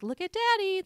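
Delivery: mock doting mom. Playing mom posing for a picture, high singsong. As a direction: imitate a parent coaxing a child for a photo.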